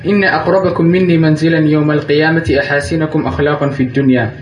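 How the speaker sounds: fast, fluent Arabic recitation; hadith recitation. Acted.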